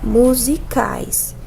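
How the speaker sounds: drawn-out slow words; dictating slowly to students; slow dictation. Shown as a demonstration. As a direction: spell it out slowly for notes.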